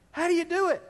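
laughing repeat. Acted. Pastor repeating the question to his church with a laugh. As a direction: toss it back with an amused laugh.

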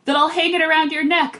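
eager cry, pitch lifted; Atreyu. A narrator's reading. Atreyu offers the horse his gem, narrated cry. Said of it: "Atreyu cried".

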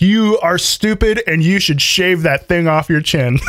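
laughing through a mean comment; reading an insult while laughing. Retold or imitated.

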